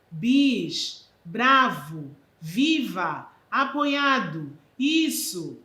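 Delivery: loud cheering calls of praise; bravo-style cheers; cheering applause words. Shown as a demonstration. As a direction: call them out like a crowd cheering a show. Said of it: "Valor semântico, aplauso".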